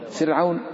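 فرعون with a light, thin ra; فرعون, ra softened; thin r in Firaun. Shown as a demonstration. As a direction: say فرعون with the ra kept thin, not heavy. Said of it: "فنرقق ونقرأ هكذا فرعون".

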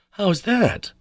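baffled by his reasoning; high amazed cry. A narrator's reading. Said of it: "more amazed than ever".

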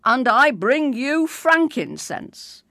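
put-on a small boy saying his nativity line; child king reciting. First king presenting gold to Mary, child recital. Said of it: "said the third king".

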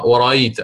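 ورأيت with a clear full glottal stop; ورأيت with full tahqiq; full hamza. Shown as a demonstration. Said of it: "ما سبقت بهمزة الاستفهام".

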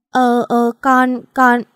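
cornered bride stammering at her mother-in-law, flustered; tongue-tied stammer. A narrator's reading. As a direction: choke on the words in panic. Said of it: "Líu lưỡi luôn".

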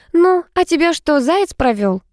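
high-pitched surprised question; curious, taken-aback friend. A narrator's reading. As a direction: ask in astonishment, starting high. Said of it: "удивилась Алла".

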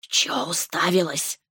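slow rude serpent voice; lightly voiced rude snake. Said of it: "спросила змея".

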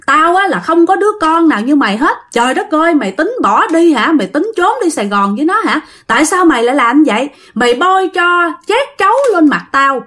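outraged parental telling-off, acted; angry scolding father. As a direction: rant like a furious father at his child. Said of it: "ba vừa đánh anh mà vừa chửi".

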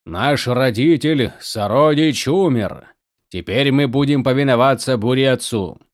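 very slow, resonant spirit voice; slow booming otherworldly being. Acted. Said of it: "ответил мраморный гулким голосом".

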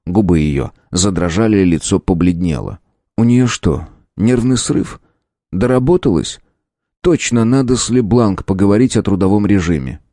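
ordinary delivery

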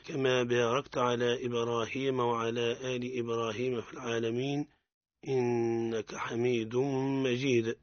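measured recited supplication; prayer. Acted. Teacher opening the lesson with a prayer, recited devoutly. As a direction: intone the prayer calmly and devoutly.

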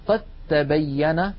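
قد تبين said qattabayyana, د merged into ت; slow demo of the doubled ت; merged reading. Shown as a demonstration. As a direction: say it carefully with the merge. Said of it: "لاحظوا النطق".

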